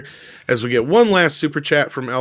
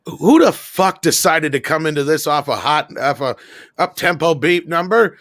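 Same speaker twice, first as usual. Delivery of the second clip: high-pitched exasperated rant, climbing higher; Casey Kasem losing it; 9 semitones higher than usual. Retold or imitated. Radio host fed up with staff, mock furious rant. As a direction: imitate a radio host blowing up at his crew. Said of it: "Casey Kasem losing it over".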